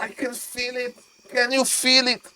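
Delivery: very soft, suspenseful commentary; ominous hush. Real, not acted. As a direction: drop to a hush to share the dread. Dramatic hush as game slips away.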